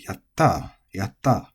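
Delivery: yatta, energy on the final ta; accent at the end. Shown as a demonstration. Teacher demonstrating to learners, yatta with end emphasis. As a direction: land on the ta in yatta. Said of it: "in the end of the word".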